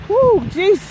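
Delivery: winded while walking; gasping a little between words; out of breath. Real, not acted. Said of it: "I'm out of breath".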